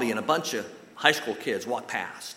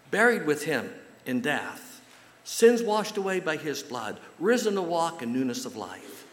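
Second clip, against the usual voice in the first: higher, louder and slow; rising fervor; 5 semitones higher, 4 dB louder than usual. Real, not acted. Preacher describes baptism to the church, building fervor.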